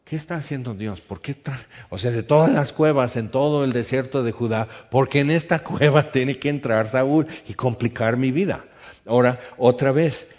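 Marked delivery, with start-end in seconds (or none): 1.0-8.6 exasperated complaint. Acted. David complaining about Saúl.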